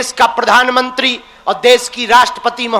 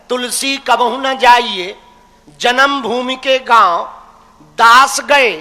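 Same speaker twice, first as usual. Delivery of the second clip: slow, measured chant of Tulsidas's verse; reciting a couplet; slower than usual. Shown as a demonstration. Guru quotes Tulsidas to the crowd, slow recitation. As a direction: intone the old doha slowly like scripture. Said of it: "तब तो तुलसीदास जी कह रहे".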